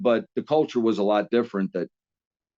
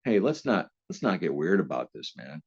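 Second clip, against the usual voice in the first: calm, low and softer; cool and unbothered, easing tension; real calm; 7 semitones lower, 5 dB quieter than usual. Retold or imitated. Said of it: "he looks at me just real calm".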